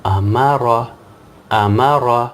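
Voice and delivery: امارا with a thick, full را; امارا میں را موٹا; heavy ra. Shown as a demonstration. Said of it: "موٹا پڑھیں گے".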